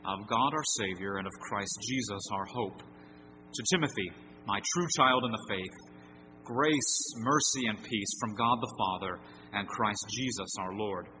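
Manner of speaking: scripture reading. Acted. Pastor reads the text to the congregation, solemn and measured. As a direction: read the passage as holy words.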